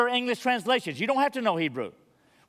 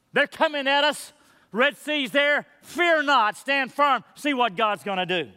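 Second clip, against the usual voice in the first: urgent dramatic; 6 semitones higher, 3 dB louder than usual. Acted. Pastor acting out Red Sea moment.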